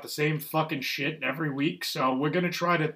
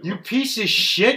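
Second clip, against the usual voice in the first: mock outrage; 5 semitones higher, 5 dB louder, slower than usual.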